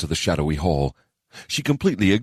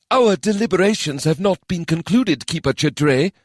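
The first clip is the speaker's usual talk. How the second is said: cold objection; 12 semitones higher, 3 dB louder than usual. Acted. Minister objects coldly.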